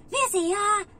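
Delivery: mother yelling for the helper; calling out. Retold or imitated. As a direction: shout her name to get her attention.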